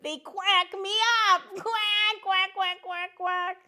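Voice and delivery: high, cheerful cartoon duck voice; a chirpy little duck saying hello to kids; friendly duck puppet. Duck puppet joke and quacks.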